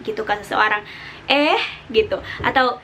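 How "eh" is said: "Eh" rising like a question. Shown as a demonstration. Teacher showing tone two as a question. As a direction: ask "Eh" with the pitch going up. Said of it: "kita biasa bertanya dengan nada seperti itu".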